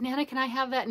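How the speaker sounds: a hint of a small boy begging; grandson asking. Grandson asking his grandmother for the crab, mock child plea. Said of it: "I had my grandson ask me".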